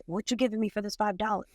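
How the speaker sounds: mock-sassy skeptical buyer; a lightly voiced "prove it to me"; skeptical customer. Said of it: "I'm like".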